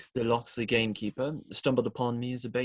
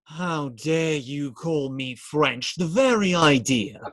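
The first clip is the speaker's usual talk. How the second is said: slow, hammed-up indignation; mock outrage; 3 semitones higher, 5 dB louder than usual. Robin pretending offence at being called French, mock outrage. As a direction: play at being deeply offended.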